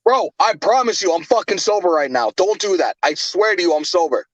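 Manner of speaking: hoarse, worn-out voice; raspy whisper. Real, not acted. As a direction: plead through a lost voice. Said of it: "I have no voice".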